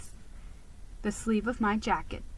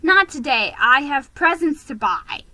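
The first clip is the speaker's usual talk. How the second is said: chiming in; 4 semitones higher, 6 dB louder than usual. Acted. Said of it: "chimed in another".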